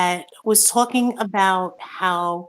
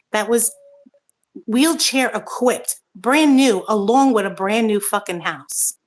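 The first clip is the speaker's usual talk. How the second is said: real anger. Real, not acted. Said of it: "but I am really pissed".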